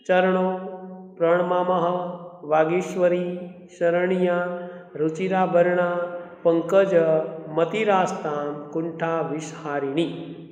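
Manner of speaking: calm repeat of the Sanskrit words, fading at the end; careful recitation. Shown as a demonstration. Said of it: "Again, third time".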